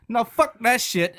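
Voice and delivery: slow hammed-up dad saying no; dad's flat refusal. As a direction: shut it down like an annoyed father.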